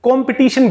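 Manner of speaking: "कंपटीशन" as kom-pi-TEE-shun; short i in the middle of "कंपटीशन"; common mispronunciation. Shown as a demonstration. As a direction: show the everyday "कंपटीशन" with pi, not puh. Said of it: "हम इसको".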